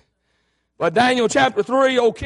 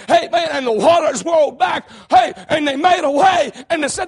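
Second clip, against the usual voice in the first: preaching at full force; 2 semitones higher than usual. Acted. Preacher shouting the Red Sea story to the church. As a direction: build the crowd up with each line.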